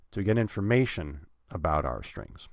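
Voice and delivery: "information" stressed, slight pause before "about our strings". Shown as a demonstration. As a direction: set off "information" with a short pause. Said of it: "putting a bit of a pause".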